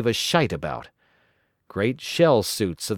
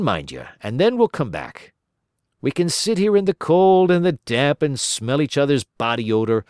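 lightly voiced wheedling colleague, a touch higher; coaxing Coombs; 4 semitones higher, 4 dB louder than usual. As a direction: talk your partner into skiving off. Coombs persuading narrator.

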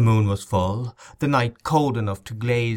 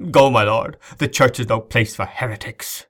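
stern dismissal; 5 dB louder than usual. Acted. Bishop drives him out.

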